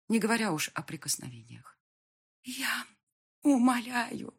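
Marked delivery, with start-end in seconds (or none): 2.4-4.3 desperate rasp. A narrator's reading. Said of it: "просипела я в отчаянии".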